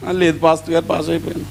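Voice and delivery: subdued little reply to the pastor; crying boy, imitated. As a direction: answer softly as an upset child would. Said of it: "ఒక పిల్లోడు ఏడుస్తున్నాడు".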